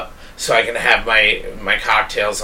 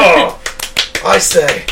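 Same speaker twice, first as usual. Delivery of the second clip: posh British commentator; 7 semitones higher, 5 dB louder, slower than usual. Pretend.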